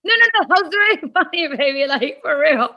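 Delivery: giggly insisting. Retold or imitated. To her straight-faced husband, insisting through giggles. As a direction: insist while still cracking up.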